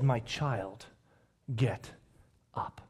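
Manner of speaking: hushed, low, spaced-out words; quiet, low raising call; gentle command. Acted. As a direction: speak softly to a child, pausing between words. Voices Jesus raising the girl.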